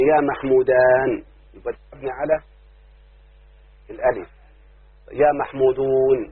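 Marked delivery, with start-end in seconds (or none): 0.0-1.2 slow, deliberate example phrase. Shown as a demonstration. Teacher giving a grammar example, slow and deliberate. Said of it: "اقول مثلًا". 5.1-6.2 drawn-out, careful example; slow example. Shown as a demonstration. Teacher showing the waw ending, slow and careful. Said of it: "يبقى مبني على الواو".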